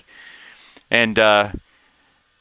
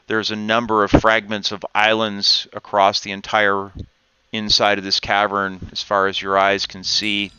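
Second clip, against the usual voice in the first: game master scene setting; 3 dB quieter than usual. A narrator's reading. GM sets the cavern scene.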